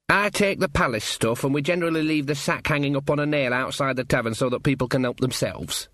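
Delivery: lightly voiced local lad; matter-of-fact country youth. Sean explaining the mail arrangement to visitors, matter-of-fact. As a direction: explain the routine simply, without concern.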